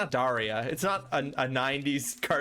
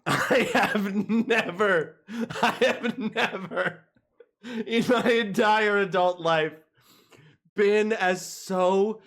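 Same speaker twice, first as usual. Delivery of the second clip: laughing disbelief; 2 semitones higher, 3 dB quieter, much slower than usual. Real, not acted. Alone, stunned by being abandoned.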